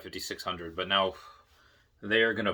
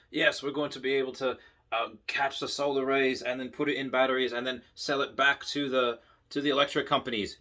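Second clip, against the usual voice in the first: put-on light Australian accent, slightly raised; Stephen Mark Ryan's Australian accent. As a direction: quote him with a hint of an Australian accent. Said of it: "in his Australian accent".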